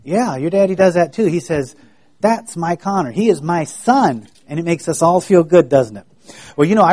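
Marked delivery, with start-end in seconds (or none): 2.2-4.3 proud dad. Retold or imitated. Connor's daddy brags on him.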